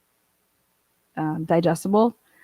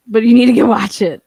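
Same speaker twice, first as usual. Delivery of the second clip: excited; 3 semitones higher, 10 dB louder than usual. Real, not acted. Urging chat to watch show.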